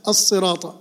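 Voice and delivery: الصراط with a held double S; doubled sad. Shown as a demonstration. Teacher repeating the doubled letter, long S in الصراط. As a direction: lengthen the S in الصراط. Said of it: "الصاد حرف مشدد".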